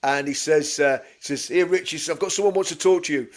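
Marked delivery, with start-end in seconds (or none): 1.5-3.3 mate's London accent, badly imitated; slightly raised, hammy London voice. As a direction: put on a poor London accent. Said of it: "That's the worst London accent ever".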